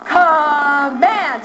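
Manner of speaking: drawn-out commanding chant; firm classroom chant of a command; in charge. Shown as a demonstration. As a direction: stretch it out with authority. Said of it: "you're so in charge".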